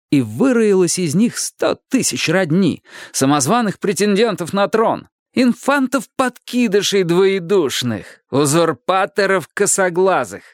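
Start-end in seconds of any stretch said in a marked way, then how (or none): none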